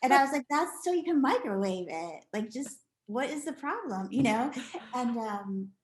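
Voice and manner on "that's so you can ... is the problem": impatient explaining. Retold or imitated. Annoyed mother.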